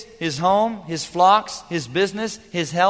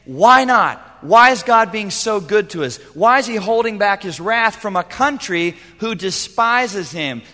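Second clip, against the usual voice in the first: loud preached question; 3 semitones higher, 5 dB louder than usual. Acted. Preacher voicing what we should say.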